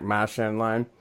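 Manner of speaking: put-on Marchand line in a Boston accent, r dropped. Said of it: "that was my Boston accent".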